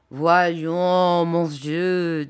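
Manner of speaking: a touch of gentle reassurance; soothing an old friend, mildly; conciliating tone. A narrator's reading. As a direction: coax him kindly, lightly voiced. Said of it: "dit la bergère d'un ton conciliant".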